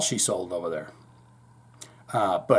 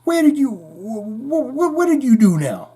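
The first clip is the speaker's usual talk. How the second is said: high, incredulous showman voice; 9 semitones higher than usual. Acted. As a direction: ask the ghost, stumbling and swooping up high. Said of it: "I said".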